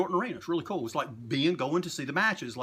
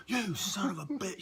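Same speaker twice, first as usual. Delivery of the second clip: drawn-out, higher mock-angry cry; mock furious outburst; 4 semitones higher, 5 dB quieter than usual. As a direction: imitate someone losing it, held back in volume. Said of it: "He got so fucking mad".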